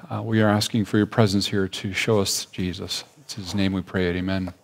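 soft, hushed pastoral prayer; a gentle opening prayer before the sermon. Acted. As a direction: pray quietly and humbly to the Lord.

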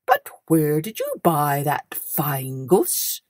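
low, slow questioning grinder; a hint of a gruff tradesman; knife grinder.

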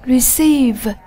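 "Receive" with the stress on "ceive"; second-syllable stress. Shown as a demonstration. Teacher models "Receive" for the class, stressing its second syllable. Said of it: "Nhấn âm tiết số hai".

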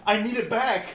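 high, loud, through laughter; laughing. Acted. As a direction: beg while cracking up. Voicing hand joke while laughing.

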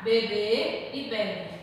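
slow be-BÊ, then BÉ-bi; contrasting stress. Shown as a demonstration. Teacher repeating the difference for children, slow contrasting stress. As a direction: contrast "Bebê", stressed last, with "bebe", stressed first. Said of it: "Olha só o tom que mudou a palavra".

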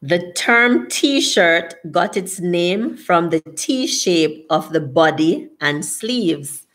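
slow, measured read-aloud. Real, not acted. Host reads viewers a T-shirt fact, slow read-aloud. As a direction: read it out slowly, word by word.

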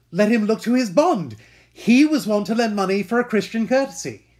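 loud, bitter repetition; vengeful threat. Acted. Scene: Shylock repeats his warning about Antonio's bond, loud and bitter. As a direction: repeat the threat even harder.

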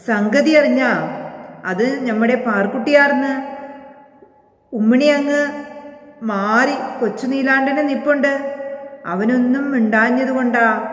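lightly voiced rustic Malabar villager; village dialect. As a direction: tell the news in a country village accent. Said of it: "നാടൻ ഭാഷയിലാണ്". (നാടൻ ഭാഷയിൽ മമ്മൂഞ്ഞിന്റെ ലഘുവായ സംസാരം)

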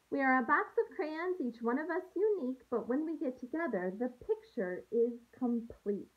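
put-on gentle storybook read-aloud for young students; picture book read to a class; reading to children. Teacher reads picture book aloud.

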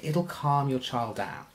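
slow, soft, soothing bedtime voice; slow and relaxing. Shown as a demonstration. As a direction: wind the child down gently and slowly. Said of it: "talk slower and more relaxing".

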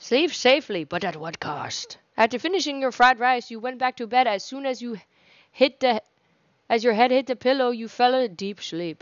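measured narrator voice; lightly dramatic game narrator; story narration. Acted. Narrator-style game ending.

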